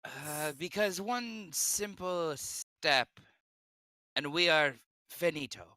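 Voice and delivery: put-on loose Mexican accent, slowed down; a hint of a Mexican accent. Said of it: "does he sound more Indian when he's trying to do a Mexican accent".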